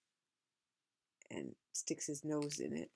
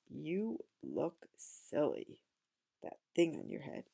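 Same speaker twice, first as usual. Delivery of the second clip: slow teasing cat; slower than usual. Retold or imitated.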